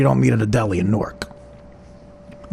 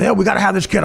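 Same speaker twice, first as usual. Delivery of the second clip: higher-pitched eager announcement, re-enacted; retold excitement; 5 semitones higher, faster than usual. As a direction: act out being keen on the idea. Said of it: "I'm, like, all excited".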